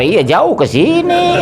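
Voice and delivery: chuckling through the words; slow amused chuckle; laughing. Real, not acted. Chuckling at the long trip.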